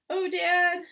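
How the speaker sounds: put-on high pleading child voice; small fox. Hungry cub pleading with its father, high voice. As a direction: beg like a hungry little cub.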